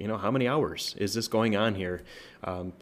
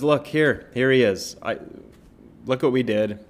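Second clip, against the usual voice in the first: Pilate presenting Jesus; 4 semitones higher, 6 dB louder than usual. Retold or imitated. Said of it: "And he says".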